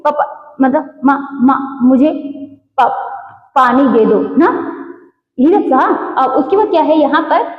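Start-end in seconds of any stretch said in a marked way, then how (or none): 0.0-4.5 stammering on the first sounds, pa- and ma-, before getting it out; stuttering demo. Shown as a demonstration. Teacher showing a stuttering child asking for water. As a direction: stall and repeat the opening sounds like a stuttering child. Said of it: "देखिए बहुत ज्यादा अंतर नहीं है".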